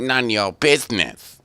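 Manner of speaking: loud, high-pitched comeback; mock rebuff. Player heckling the game's question about what happened, mock rebuff. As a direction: blurt it out high and loud over a laugh.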